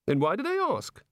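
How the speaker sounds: high, airy god voice; a bright chatty god. A narrator's reading.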